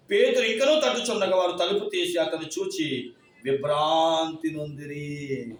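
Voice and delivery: slow, measured Bible reading; solemn scripture reading. Acted. Pastor reading Acts to the congregation, slow and solemn. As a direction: read each verse slowly and deliberately. Reads scripture passage aloud.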